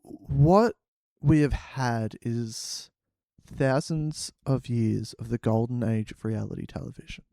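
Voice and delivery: lightly acted solemn speech, mostly low; measured, low oratory; Simon Cowell. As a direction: deliver a grave pronouncement with long pauses. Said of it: "he, he says to them".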